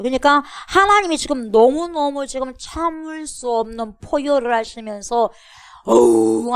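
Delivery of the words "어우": long loud roar; imitated lion roar. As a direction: roar as if unable to hold back. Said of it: "하면서 사자처럼". (사자처럼 부르짖는 소리)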